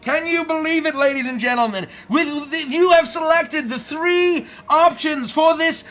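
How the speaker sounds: announcer voice. Acted. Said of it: "announcer voice".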